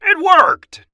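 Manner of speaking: very high, loud squeal; elated high mouse shout; triumphant yell. A narrator's reading. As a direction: shriek the victory. Big Cheese celebrates success.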